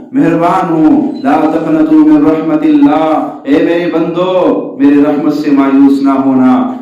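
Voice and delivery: preaching at full force. Acted. Preacher urging his brothers not to despair, loud fervent preaching. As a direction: lift the hall with God's mercy.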